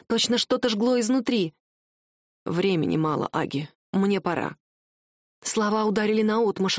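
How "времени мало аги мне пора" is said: a touch of heavy farewell. A narrator's reading. Husband says goodbye. (муж тихо прощается, с грустью)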